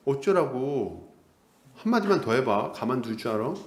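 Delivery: slow, low menacing "어쩌라고", stretched out; menacing drawl. Retold or imitated. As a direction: draw out "어쩌라고" very slowly as a threat. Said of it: "이렇게 얘기하는 거예요".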